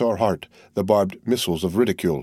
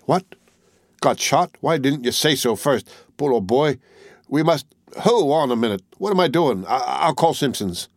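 a touch higher, concerned and flustered; mild alarm for a hurt buddy; lightly voiced worried friend; 4 semitones higher than usual. Wilson fussing over wounded Henry, mildly alarmed.

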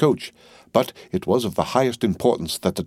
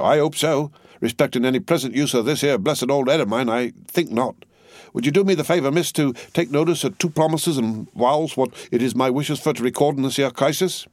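higher, rough earnest servant voice; Jerry Cruncher; 6 semitones higher than usual. A narrator's reading. Cruncher answers Miss Pross, rough and earnest. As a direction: voice the trembling servant.

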